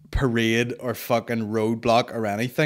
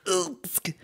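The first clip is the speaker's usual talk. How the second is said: mock wince grunt; 9 semitones higher than usual. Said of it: "wincing face, like".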